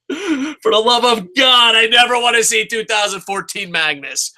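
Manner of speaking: anguished cry of a fed-up fan; loud, slowed, begging outcry; pleading shout. Real, not acted. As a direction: shout it like you can't bear it. Pleading rant about Magnus.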